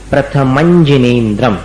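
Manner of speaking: प्रथमंजिनेन्द्रम with 'manjin' joined like anjan; anjan sound. Shown as a demonstration. Teacher showing the joined sound. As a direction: join प्रथमं into जिनेन्द्रम. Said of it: "अंजन जैसा".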